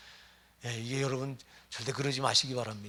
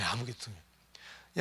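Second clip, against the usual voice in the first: softer and lower, letting 아무것도 없는 drop; soft echo; 4 semitones lower, 7 dB quieter, faster than usual. Acted. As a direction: murmur 아무것도 없는 as an afterthought. Quiet echo of the rebuke. (아무것도 없는을 낮고 조용하게)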